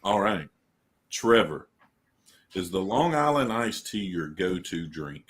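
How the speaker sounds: lightly put-on radio host delivery; a hint of the deep-voiced radio interviewer. Co-host puts a question to Trevor, deep radio voice. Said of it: "my deep radio voice".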